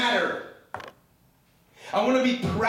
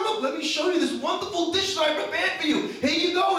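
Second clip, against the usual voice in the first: playful waiter; 9 semitones higher than usual. Pretend. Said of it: "we're the waiter".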